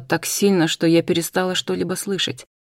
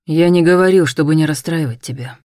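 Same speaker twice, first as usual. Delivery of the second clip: cold; 5 dB louder than usual. Acted. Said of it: "холодно сказал Тео".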